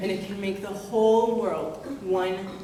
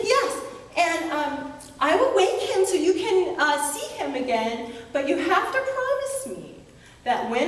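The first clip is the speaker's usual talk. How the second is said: put-on much higher, quick, teasing girl voice; little sister; 6 semitones higher than usual. Girl hinting at her secret to her brothers, high and teasing. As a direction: tease the brothers in a high bright child voice.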